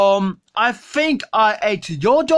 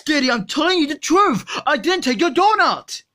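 put-on insisting kid voice; 3 semitones higher than usual.

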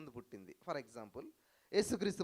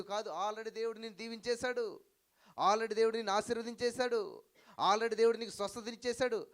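rising proclamation; 5 semitones higher, 4 dB louder than usual. Real, not acted. Preacher correcting the prayer.

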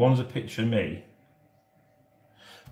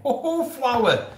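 laughing fond greeting; 13 semitones higher, slower than usual. Real, not acted.

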